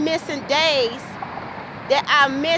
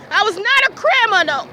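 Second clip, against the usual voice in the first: real screaming; 4 semitones higher than usual. Real, not acted. Yelling at her landlord for calling her a bitch, raw anger. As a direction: yell it out, mad and betrayed. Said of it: "I'm screaming because I was so mad".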